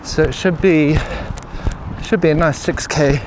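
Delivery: talking mid-run, a little puffed; while running. Real, not acted. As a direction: speak between strides on a jog. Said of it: "let's see how many kilometers we've done".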